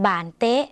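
"บานเตะ" as an isolated vocabulary word, evenly spaced; pronunciation model. Shown as a demonstration. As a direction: say "บานเตะ" carefully for learners to repeat. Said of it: "ออกเสียงไปพร้อมกัน".

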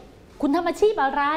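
slow model question; asking the question. Shown as a demonstration. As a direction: ask it slowly like a model question. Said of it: "ใช่ไหม พอถาม".

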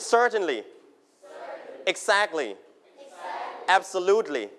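one word at a time, pausing after each; teacher modelling words for the class to repeat; model pronunciation. Shown as a demonstration. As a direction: clear drill of Certainly, Exactly, Absolutely for echoing. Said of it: "repeat after me".

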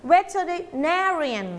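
"veterinarian" with "na" standing out as loudest; stress on NA. Shown as a demonstration. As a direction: slowly demonstrate "veterinarian", punching "na". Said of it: "ควานพูดเสียงดังกว่าเพื่อน".

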